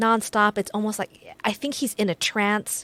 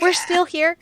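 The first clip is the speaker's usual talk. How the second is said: amazed; 8 semitones higher, 4 dB louder than usual. Retold or imitated. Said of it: "You're like".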